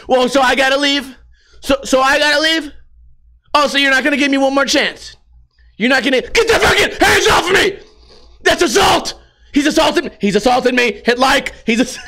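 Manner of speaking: put-on high, shouting skater kid; bratty kid crying assault. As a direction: yell that he's being assaulted.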